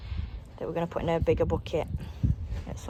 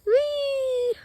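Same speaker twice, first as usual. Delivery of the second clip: excited. Real, not acted. Playful exclaim on walk.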